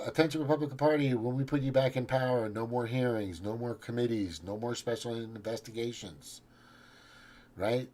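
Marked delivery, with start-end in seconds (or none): 0.1-6.4 raised voice, fast rally-style call to the party. Real, not acted. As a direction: call out to the Republican Party like from a podium.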